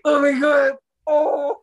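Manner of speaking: high, loud mock wail; imitated crying. Retelling crying next to sister, mock sobbing wail. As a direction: act out bawling beside your sister. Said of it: "I was crying so bad".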